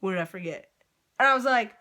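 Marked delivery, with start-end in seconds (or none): 0.0-0.7 lower, offhand question with no apology; low-pitched, unceremonious delivery; curt retold question. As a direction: imitate a server who can't be bothered to apologize. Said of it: "opens the window back up and goes".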